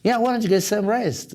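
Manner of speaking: slow, clear teacher's model; slow model sentence. Shown as a demonstration. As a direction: spell it out slowly for learners. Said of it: "Say it again?".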